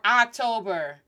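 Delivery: October starting with a wide "ah"; drawn-out October, English "ahk" first; English open O. Shown as a demonstration. Teacher showing what O is not, open English October. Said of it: "It's not open".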